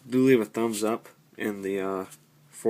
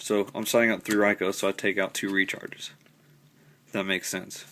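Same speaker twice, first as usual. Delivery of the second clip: stuffy nose; blocked nose. Real, not acted. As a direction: talk with a stopped-up nose. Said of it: "Sorry if I sound stopped up".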